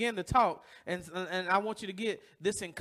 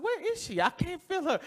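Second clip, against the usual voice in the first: retold panic; 8 semitones higher than usual. Retold panic while learning to swim.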